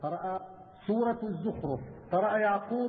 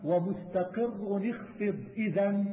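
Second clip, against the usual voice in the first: slow, measured verse recitation; poem recitation; slower than usual. Acted. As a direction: draw out the syllables, reciting metred verse. Recites the next section of verse. (إلقاء منظومة بتمهل ومدّ)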